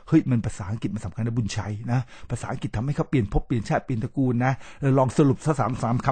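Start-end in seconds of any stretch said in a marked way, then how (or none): 0.1-4.5 pep talk with some energy; built-up emotion. Shown as a demonstration. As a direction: hype them up that this matters. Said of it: "แต่ถ้า build ก็คือ". (ปลุกอารมณ์ให้ฮึกเหิม)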